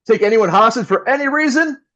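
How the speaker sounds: ordinary talk, nothing marked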